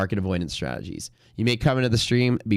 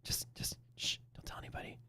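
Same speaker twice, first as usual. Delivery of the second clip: hushed secretive whisper; voicing a bear whispering secrets; 13 dB quieter than usual. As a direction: whisper it like a conspiracy in his ear. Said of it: "whispering in his ear".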